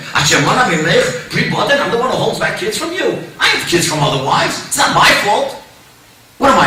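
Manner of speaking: acted indignation with rising rhetorical questions; angry retort. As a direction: play an exasperated husband rebuking his wife. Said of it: "Yaakov gets angry at Rachel".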